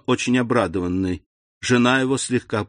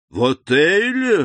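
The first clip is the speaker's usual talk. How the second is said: startled slow exclamation, louder; вскрик удивления; 7 semitones higher, 4 dB louder, slower than usual. A narrator's reading. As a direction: blurt it out in shock. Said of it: "воскликнул Вильфор". (удивлённое восклицание)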